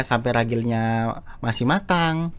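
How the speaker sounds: "matang" drawn out at the end; akhir kalimat dipanjangkan. Shown as a demonstration. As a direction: stretch the last syllable of "matang". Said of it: "di akhirnya tuh dipanjangin". (suku kata akhir "matang" dipanjangkan)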